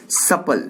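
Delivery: सपल as SUP-ul, short first vowel; pronunciation demo. Shown as a demonstration. Teacher asks class to pronounce सपल, pronunciation demo. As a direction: model सपल as a lone word for repetition. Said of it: "कैसे pronounce करेंगे".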